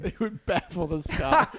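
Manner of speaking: laughing through the phrase; can't keep a straight face saying it; giggling mock-pompous line. Real, not acted. Friends riffing laughing.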